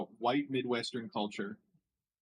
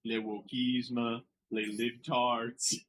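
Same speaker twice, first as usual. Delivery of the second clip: slow mock French; 3 semitones lower, much slower than usual. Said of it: "real life French is like".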